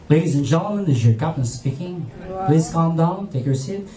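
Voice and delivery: low-pitched cabin announcement; composed captain. Retold or imitated. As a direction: imitate a pilot staying calm and in control. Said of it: "nagsalita yung captain. And compose, very positive".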